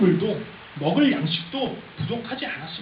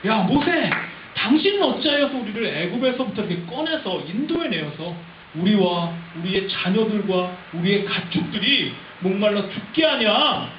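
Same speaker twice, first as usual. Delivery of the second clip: resentful reproach. Acted. Thirsty people blame Moses for their plight, resentful and accusing. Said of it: "모세를 굉장히 원망합니다".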